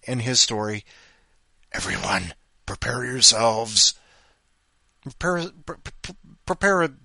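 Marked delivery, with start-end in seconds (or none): 1.7-6.9 flubbed dramatic announcement. Acted. Host hypes the next story, grand announcer voice. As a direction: build it up big, then trip over prepare. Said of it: "I just blew that one".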